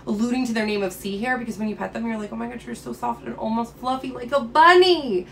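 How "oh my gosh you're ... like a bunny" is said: mildly gushing, as if petting something cute; gushing over softness. Acted. Someone petting a sea hare, gushing.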